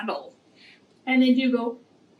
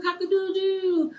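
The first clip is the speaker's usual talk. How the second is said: high crow that falls away at the end; softer rooster crow; 7 semitones higher than usual. Shown as a demonstration. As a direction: let the crow drop off gently. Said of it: "Please say the songs and the s-, sounds along with the animals".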